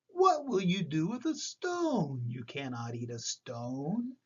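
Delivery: put-on a doubtful little old lady, slowly.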